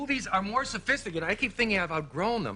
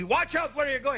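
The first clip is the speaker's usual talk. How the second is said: a hint of a rude New York cabbie, higher; gruff cabbie; 6 semitones higher than usual. Comic recalling old New York cabbies, a light cabbie snap. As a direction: toss it off like a cabbie leaning out.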